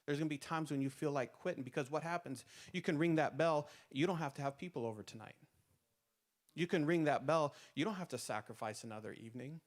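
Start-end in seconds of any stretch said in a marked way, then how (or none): 2.7-3.7 louder refrain. Acted. Preacher's repeated refrain, louder. 6.5-7.5 louder refrain. Acted. Repeated refrain.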